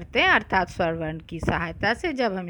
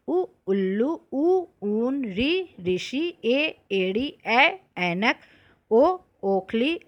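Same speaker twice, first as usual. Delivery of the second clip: reciting vowels; slower than usual. Shown as a demonstration. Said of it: "अब मैं स्वर वर्ण पढ़ती हूँ, आप ध्यान से सुनिए".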